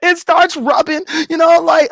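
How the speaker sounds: cracking up. Real, not acted. Telling on through laughter.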